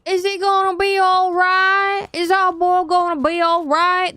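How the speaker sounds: Pa Kent impression. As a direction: plead like a fretting farm father. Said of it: "That was Pa".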